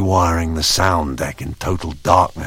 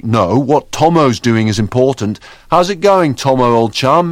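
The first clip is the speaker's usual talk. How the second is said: excited cheerful figure; 7 semitones higher, 5 dB louder than usual. Acted. Bright singing voice while searching.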